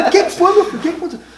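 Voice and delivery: pressing fatherly worry; worried father. Retold or imitated. Imitating his father pressing him for an answer. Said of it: "E ele".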